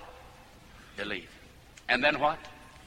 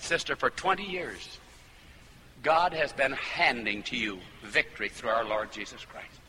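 gentle, lower-pitched pastoral counsel; kindly; 4 semitones lower than usual. Retold or imitated. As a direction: correct her kindly, without belittling. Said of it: "I said it kindly".

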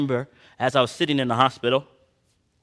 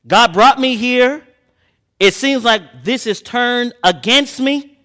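frustrated prophet; 10 semitones higher, 7 dB louder, slower than usual. Acted.

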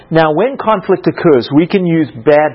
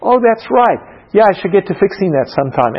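innocent; 4 semitones higher than usual. Retold or imitated. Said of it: "innocently goes".

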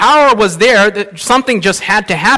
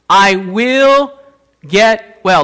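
slow emphatic repeat; much slower than usual. Acted.

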